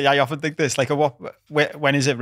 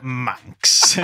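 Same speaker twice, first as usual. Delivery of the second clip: laughing; 3 dB louder than usual. Retold or imitated. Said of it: "I think that's what your brain did".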